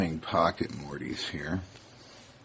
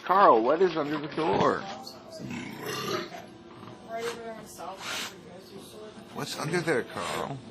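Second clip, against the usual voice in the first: high pet voice; 10 semitones higher than usual. Real, not acted. Asking pet repeatedly.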